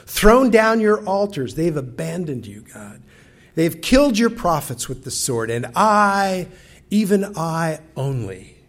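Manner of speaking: Elijah's bitter complaint. Acted. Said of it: "You can almost get Elijah's tone".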